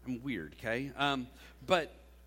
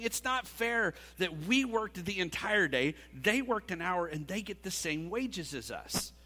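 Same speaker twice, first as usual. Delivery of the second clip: mock grumbling complaint; 4 semitones higher, 4 dB louder than usual. Workers grumbling in retold parable.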